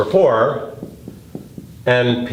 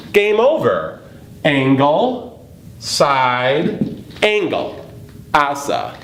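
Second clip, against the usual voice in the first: much higher, gleeful declaration; triumphant; 4 semitones higher, slower than usual. Acted. Teacher declaring the proof solved, gleeful. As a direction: announce victory like a game show.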